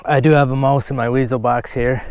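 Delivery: winded from digging holes; panting between words, out of breath. Real, not acted. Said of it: "Sorry, I'm out of breath".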